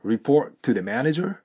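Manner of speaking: "report to the manager" with one T joining report and to, rising at the end; linked T's. Shown as a demonstration. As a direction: hold briefly, then link report into "to". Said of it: "TとTがリエゾンしているので".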